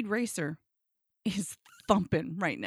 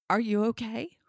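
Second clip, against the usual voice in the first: careful question rising at the end; concerned check-in; 4 dB louder than usual. Retold or imitated. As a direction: check on them gently but audibly. Partner's first check-in, acted.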